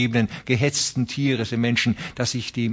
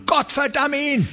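very high furious curse; 14 semitones higher than usual. Acted. A rancher curses Shelgrim, very high and furious. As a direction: spit out the curse.

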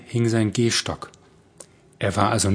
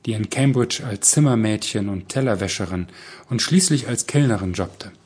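ordinary delivery

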